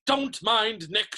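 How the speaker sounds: high, drawn-out hearty call; shouting. A narrator's reading. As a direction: call out breezily to the guests. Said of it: "shouted Sir Patrick's head".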